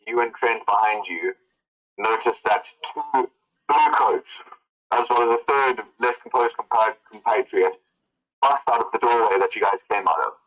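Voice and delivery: measured, lightly dramatic narration; storyteller pacing with deliberate pauses; game master's scene setting. Acted. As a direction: lay out the scene for the players in measured phrases.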